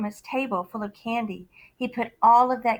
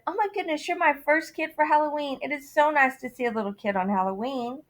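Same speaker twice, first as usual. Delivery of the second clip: starts high and delighted, then quicker; lightly voiced kind lady; sweet lady; 4 semitones higher, faster than usual. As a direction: coo over the little kid. Nice lady greets trick-or-treater.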